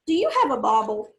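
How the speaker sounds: husky Hungarian diviner voice; Miss Sadie's Hungarian accent. Pretend. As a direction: play a mock Hungarian fortune teller. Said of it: "I asked in Miss Sadie's Hungarian accent".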